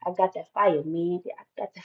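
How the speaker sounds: mock a rapper, trailing to a breath; imitating a rapper. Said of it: "I just heard a rapper".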